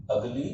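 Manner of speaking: teacher highlighting the vowel in अगली; stressed first sound. Shown as a demonstration. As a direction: lift अगली high to show the vowel sound. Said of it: "अ की ध्वनि आई".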